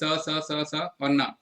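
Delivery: very slow, each स held apart; sounds drawn out. Shown as a demonstration. Teacher sounds out the letters for the class, slowly. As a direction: sound out स, स, स and न one by one. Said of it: "इसको आपको pronounce करना है".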